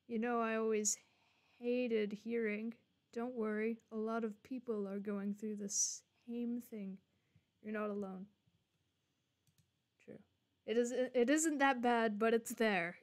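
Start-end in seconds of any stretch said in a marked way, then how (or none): 3.1-8.3 quiet, gentle comforting line; soft reassurance. Acted. Streamer reading the game's comfort line, soft and gentle.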